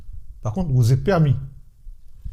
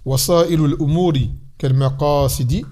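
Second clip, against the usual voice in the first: measured, metrical reading of a verse; teacher reciting classical Arabic verse; Arabic didactic verse recitation. Acted. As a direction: recite it line by line for students to learn. Repeats the verse for students.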